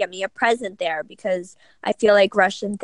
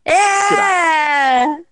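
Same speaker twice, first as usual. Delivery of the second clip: excited shout; 5 semitones higher than usual. Real, not acted. Cheering the Russian welcome.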